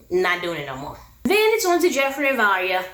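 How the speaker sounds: normal talking voice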